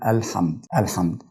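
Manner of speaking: "الحمد" with open ha: al-hamd; fatha on the ha. Shown as a demonstration. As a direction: say "الحمد" with a after the ha. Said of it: "فبنطقها مفتوحة".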